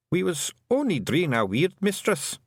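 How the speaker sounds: put-on high, lilting Scots-accented little man; a cheeky tiny clansman owning up; wee Scottish Feegle. Feegle chief confessing to the young witch, high Scots voice.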